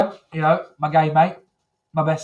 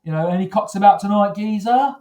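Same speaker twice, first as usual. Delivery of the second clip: a light hammed-up Cockney accent; mock Cockney geezer, lightly voiced; Cockney gay. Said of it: "You never really get a Cockney gay".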